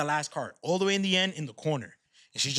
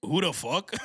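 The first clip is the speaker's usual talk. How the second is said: laughing; slower than usual. Retold or imitated. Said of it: "he had, like, a Russian accent".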